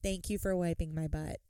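dull droning thank-you; monotone. Retold or imitated. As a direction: say it bored and flat. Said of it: "She said".

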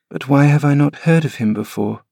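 put-on a puzzled boy asking; questioning boy. Linton questioning his nurse, high puzzled boy. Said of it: "asked Linton".

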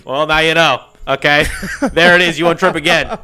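laughing. Acted. Coach shouting through laughter.

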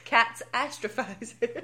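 drawn-out American accent, rising at the end. Shown as a demonstration. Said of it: "that was my American accent".

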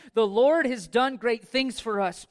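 big pulpit proclamation; proclaimed. Acted. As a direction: declare it to the whole church. Psalm line proclaimed loud.

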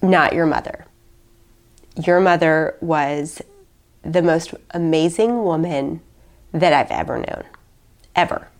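mild tearful. Retold or imitated. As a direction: hold back tears as you quote him. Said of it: "And I'm gonna start crying talking about it".

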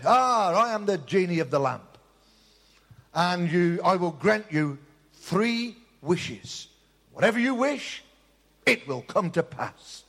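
lightly voiced grand genie, slow; a hint of a solemn genie granting wishes. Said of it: "And the genie said".

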